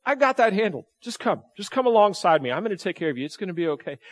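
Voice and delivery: calm him like a patient father; lightly voiced God reassuring a worried believer; gentle voice of God. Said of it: "And here's God going".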